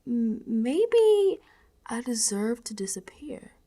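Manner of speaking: surrender, drifting away; resigned whisper. Acted. Giving up, resigned.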